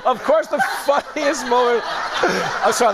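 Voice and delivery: laughing through the words; real giggles breaking in; cracking up. Real, not acted. Host laughing at the clip, can't get the line out. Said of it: "that made me laugh".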